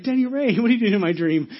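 loud, high, amused surprise; mock astonishment. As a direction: exclaim at finding a friend where he shouldn't be. Astonished at friend in dream.

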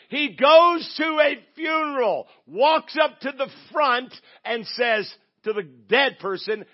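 loud, high, drawn-out proclamation; full-force preaching. Real, not acted. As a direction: proclaim it slowly, hitting each phrase hard. Preacher builds miracle story at full force.

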